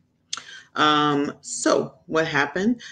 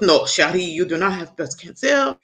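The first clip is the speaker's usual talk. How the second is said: imitated Haitian accent; Doctor Pierre; 2 semitones higher, 4 dB louder than usual. Work husband denies her cancer diagnosis, Haitian accent. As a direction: put on a Haitian accent, emphatic on the opening no. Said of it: "'cause he's Haitian".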